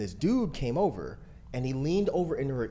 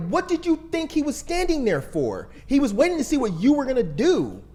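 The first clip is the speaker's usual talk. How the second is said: raised, higher-pitched exasperated challenge; retold anger; 9 semitones higher, 4 dB louder than usual. Boyfriend re-enacting how he confronted his girlfriend, exasperated. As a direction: press the point indignantly. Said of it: "fucking mad".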